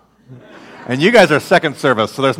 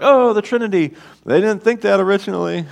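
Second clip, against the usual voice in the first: mock eager; 6 semitones higher, faster than usual. Mocking Christians' eager reading.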